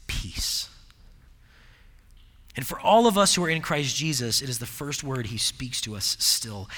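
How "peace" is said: unvoiced, hushed whisper; whispered peace. Preacher hushes as Jesus greets the frightened disciples, whispered. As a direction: let peace fall like a breath.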